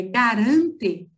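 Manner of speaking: "garante" said slowly with a soft, light final e. Shown as a demonstration. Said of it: "ele é suave". (devagar, "garante" com e final suave)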